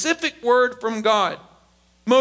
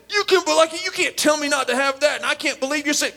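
put-on higher, protesting kid voice; acted teen arguing back; riled-up kid; 4 semitones higher, faster than usual. Kid objecting to being told calm down, worked-up protest. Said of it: "And on, and they get louder".

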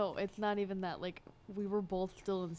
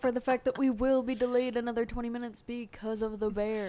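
airline pilot announcement; 3 semitones higher, 9 dB louder than usual. Pretend. Pilot announcement over intercom.

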